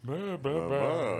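fond mumbled meh. Retold or imitated. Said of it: "everyone you love, you read".

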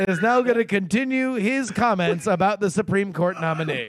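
lightly pompous floor introduction; a hint of a grand Senate chair; pompous senator oratory. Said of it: "on C-SPAN".

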